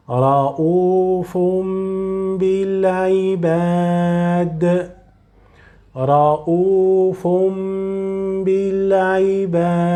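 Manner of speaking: رؤوف بالعباد, tanween turned to meem; exact recitation. Shown as a demonstration. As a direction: copy this sound of رؤوف بالعباد. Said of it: "pronounce it like here exactly".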